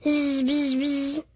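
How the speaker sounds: a touch of peevish buzzing squeak. A narrator's reading. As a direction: buzz back peevishly. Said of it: "In a peevish squeak".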